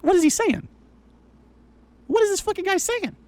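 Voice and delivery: exasperated disbelief; incredulous. Real, not acted. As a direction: ask it like you can't believe your ears. Incredulous at the streamer.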